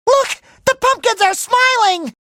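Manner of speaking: high, excited cartoon exclamation; delighted wonder. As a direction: point it out with glee. Delighted discovery.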